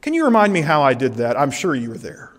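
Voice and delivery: mock-innocent request with a sarcastic edge; lightly sarcastic divine needling; sarcastic God. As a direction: feign needing his help, dryly. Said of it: "God being sarcastic".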